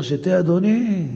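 Rebecca's courtesy. Retold or imitated. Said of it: "שהרבקה אמרה לאליעזר".

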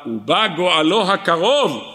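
drawn out, slow verse citation; slow solemn recitation; slow emphatic quote. Shown as a demonstration. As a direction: lay out each word of the verse slowly.

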